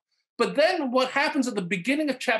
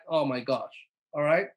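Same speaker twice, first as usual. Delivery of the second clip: exasperated sigh; 6 semitones lower than usual. Retold or imitated. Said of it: "He sighed deeply".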